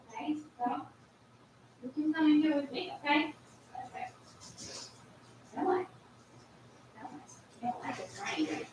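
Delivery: high, soft sing-song pet talk. Real, not acted. Talking baby talk to dog.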